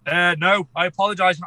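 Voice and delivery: blocked nose from a cold; stuffy nose, sounds underwater; congested. Real, not acted. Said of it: "I sound like I'm, uh, underwater at the moment".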